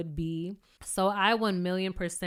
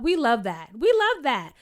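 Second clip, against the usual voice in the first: enthusiastic approval; 3 semitones higher, 5 dB louder than usual. Real, not acted. Cheering David's answer.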